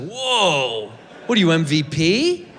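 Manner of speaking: hammed-up, drawn-out whoa; mock awe. Comedian mocking a four-point game, mock awe. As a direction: play at being wowed, pitch lifted a touch.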